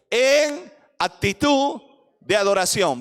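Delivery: en actitud de adoración led out loud; read in unison. Shown as a demonstration. Preacher leading the church to read aloud together. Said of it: "Lean conmigo la parte en amarillo".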